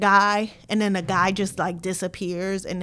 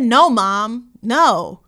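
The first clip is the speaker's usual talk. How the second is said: put-on louder, snappy teen denial; with an attitude; 3 semitones higher, 9 dB louder, much slower than usual. Boy answering his mom, loud and with attitude. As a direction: brush the mother off with attitude. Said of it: "with an attitude".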